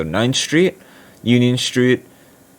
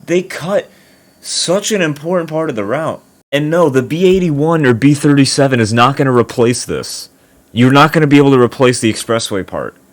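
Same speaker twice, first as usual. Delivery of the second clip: higher, louder, fed-up rant; agitated; 5 semitones higher, 4 dB louder than usual. Real, not acted. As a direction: vent about the cut route. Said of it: "I'm not trying to be agitated".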